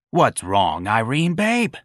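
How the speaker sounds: lightly croaky voice with concern; froggy, feeling baritone. Acted. Santa answering Irene's call, froggy and concerned. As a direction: ask feelingly, rising on the endearment. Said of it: "froggy baritone asked feelingly".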